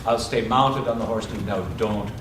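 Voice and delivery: low, soft reassurance; reassuring. Acted. Husband promising his worried wife he'll stay mounted, reassuring. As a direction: settle the voice down to soothe.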